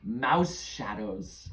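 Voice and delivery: lightly voiced scornful creature; shadow creature. Shadow creature weighing a child's offer, lightly voiced scorn. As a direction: dismiss the offer with a touch of menace.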